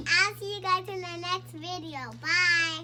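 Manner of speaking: talking around a pen; words muffled by a pen held in the mouth; pen in teeth. Real, not acted. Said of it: "Why do you have a pen in your mouth?".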